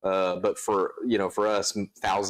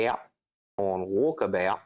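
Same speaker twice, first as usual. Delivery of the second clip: put-on Australian accent. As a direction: lightly attempt an Australian accent. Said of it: "That's all I can do".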